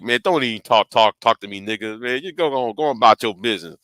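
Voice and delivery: low, subdued grumble at the uncle; retold surly brush-off. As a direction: imitate being too pissed to talk, low and soft.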